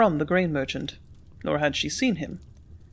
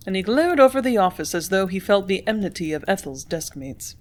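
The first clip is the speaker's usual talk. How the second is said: ordinary delivery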